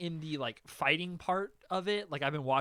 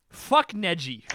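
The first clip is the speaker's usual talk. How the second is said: angry outburst; 6 dB louder than usual. Real, not acted. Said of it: "I am furious right now".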